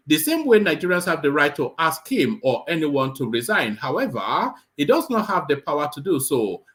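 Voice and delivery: Edo-accented official reading. Shown as a demonstration. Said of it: "I'm reading this piece in the accent of, uh, Edo Watch".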